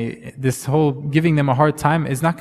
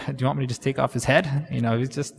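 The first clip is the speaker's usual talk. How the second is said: hushed offer; 6 dB quieter, faster than usual. Retold or imitated. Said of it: "the leader of his army turns to him and says".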